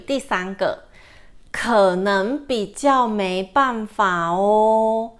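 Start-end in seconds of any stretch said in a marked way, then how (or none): 1.5-5.1 slow, clear 可能比较没办法哦, each syllable distinct; slow model phrase. Shown as a demonstration. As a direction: read 可能比较没办法哦 slowly like a teacher. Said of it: "Number three".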